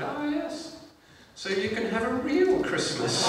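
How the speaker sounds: high, slow regal put-down; the Queen. Acted. Monarch throwing the comedian's joke back at him, high slow voice. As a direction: land it slowly in a high royal voice. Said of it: "And she went".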